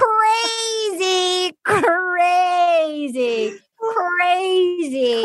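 high, long drawn-out wail; incredulous mock wail. Recapper reading her own note on the proposal, drawn-out wail. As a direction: stretch each word out in hammed-up disbelief.

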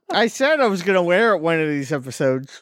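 talking around a mouthguard; wearing a mouthguard. Real, not acted. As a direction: speak with a rubber guard in. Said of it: "How do you talk with that?".

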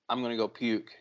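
quiet retold sick announcement; queasy, subdued. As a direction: say it softly, as if about to be sick. Retold sick man announcing nausea.

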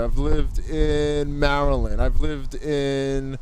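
muffled behind a face mask; through a face mask. Real, not acted. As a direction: talk through a cloth mask. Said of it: "Please excuse the mask muffling".

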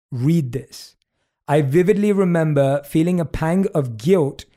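measured audiobook-style narration; plain, unhurried reading from a book; reading memoir aloud. Acted. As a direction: read the passage carefully, pausing between phrases. Reads book passage aloud.

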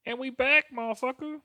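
high, loud hype shout; hype return. Acted. Host returning from the break, loud high hype. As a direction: announce it like a hype man. Hype comeback after pause.

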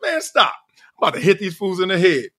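high, fast cocky boast; fast cocky brag, high start; cocky hype. Retold or imitated. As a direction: brag like you own the casino. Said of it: "I was looking at that casino like".

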